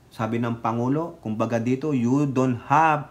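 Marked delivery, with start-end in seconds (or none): none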